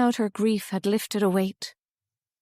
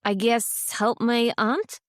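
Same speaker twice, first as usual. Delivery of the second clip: vague; slower than usual. Acted. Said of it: "Iris said vaguely".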